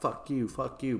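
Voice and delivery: mild mock yelling; mock screamed insults. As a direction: trade insults like a squabbling mob. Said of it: "they're all screaming insults back and forth".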